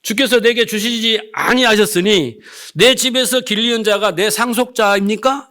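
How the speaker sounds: retold grumbling, pressing each question; argumentative complaint. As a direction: imitate a man demanding answers from God. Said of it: "이렇게 막 꼬치꼬치 따지면서".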